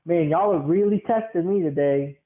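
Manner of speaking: exasperated venting with swooping emphasis; retold frustration. Worker venting into a muted phone, mildly frustrated. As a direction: stress the grievances in rising and falling swoops. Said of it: "I vented out my frustration today".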